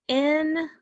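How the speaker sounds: "instruments" in three syllables with long pauses; broken apart. Shown as a demonstration. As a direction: hold each syllable of "instruments" and wait between. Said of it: "Let's break it apart".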